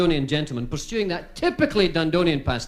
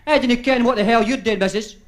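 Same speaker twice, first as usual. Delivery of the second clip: put-on drunk Dundonian man; 5 semitones higher, 4 dB louder than usual. Drunk man voiced in joke.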